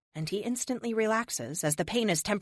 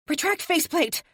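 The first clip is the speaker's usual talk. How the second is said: high sharp order; much higher, curt shouted order; bark; 11 semitones higher, 4 dB louder than usual. A narrator's reading. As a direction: bark the command at the suit. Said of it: "I bark".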